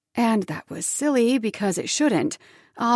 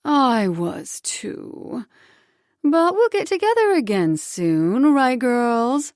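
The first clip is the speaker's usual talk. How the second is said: higher, sing-song promise; falsely sweet mother; 4 semitones higher, 4 dB louder, slower than usual. Acted. Mother promising girls, falsely sweet. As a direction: fake cheer to the kids. Ex-wife pouting.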